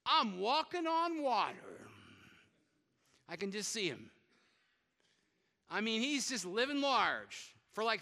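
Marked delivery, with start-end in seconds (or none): 0.1-1.9 higher and slow, savoring the wonder; a lightly played, delighted Peter, drawn out; thrilled Peter. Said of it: "he's like".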